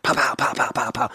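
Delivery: rapid string of pows; imitated punch noises. Roommate recounting a shadowboxing fight, rapid imitated punch sounds. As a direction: mimic quick slaps landing. Imitates his quick open-hand hits.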